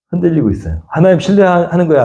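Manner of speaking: ordinary delivery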